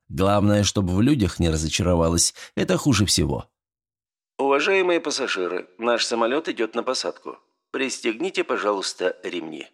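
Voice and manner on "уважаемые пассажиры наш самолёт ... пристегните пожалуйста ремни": soft cabin announcement; airplane announcement. Acted. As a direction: read it like a flight attendant over the speaker. Flight attendant announcement.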